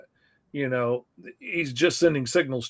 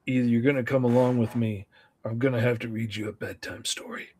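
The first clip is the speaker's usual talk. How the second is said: low, understated threat; polite menace, said quickly and low; a hint of quiet threat; menacing; 4 semitones lower, 4 dB quieter, faster than usual. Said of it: "says very menacing things like".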